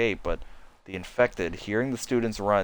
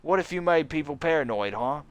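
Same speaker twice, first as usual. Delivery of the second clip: accusing student; 2 semitones higher than usual. Acted. Student accusing bitten teacher.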